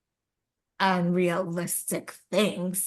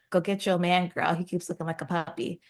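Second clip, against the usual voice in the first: a hint of sassy grandma, punching some phrases; lightly voiced grandma; 5 dB louder than usual. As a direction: lightly play grandma urging her granddaughter on. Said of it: "The grandma comes and she's like".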